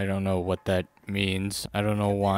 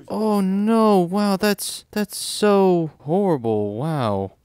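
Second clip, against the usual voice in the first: higher, louder hammed-up gasp of shock; mocking fake surprise; 8 semitones higher, 5 dB louder, much slower than usual. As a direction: overplay a fake, theatrical dismay. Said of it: "it's, like, fake surprise".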